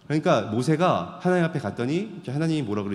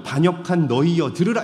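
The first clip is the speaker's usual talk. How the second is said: angry rebuke; 4 semitones higher, 5 dB louder than usual. Retold or imitated. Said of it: "막 화가 나니까". (화난 모세처럼 천천히 크게 꾸짖듯)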